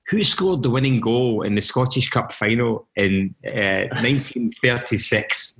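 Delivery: slow, drawn-out question in a tipsy punter voice, laughing at the end; pub quiz caller. Retold or imitated. Punter asks the newsroom a football question, slow and tipsy. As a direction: ham up a drunk asking a trivia question. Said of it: "they would say".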